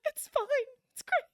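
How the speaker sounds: forced cheerful denial. Retold or imitated. Injured ranch hand insisting to the wife he's fine, forced cheer. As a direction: sell it as fine through the pain.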